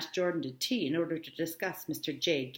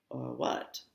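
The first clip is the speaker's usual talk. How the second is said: polite; 3 dB quieter than usual. Acted. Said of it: "I inquired politely".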